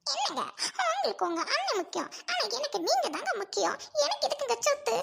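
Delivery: put-on weepy appeal; hurt, crying wife; tearful pleading. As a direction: plead through sobs, rising at the end. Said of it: "அழாதம்மா".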